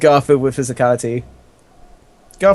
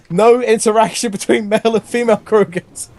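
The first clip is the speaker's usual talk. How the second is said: mock official decree; 8 semitones higher than usual. Acted official forbidding mating.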